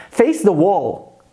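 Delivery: "Face the wall." said slowly and clearly; teacher models phrase for students, slow; slow model sentence. Shown as a demonstration.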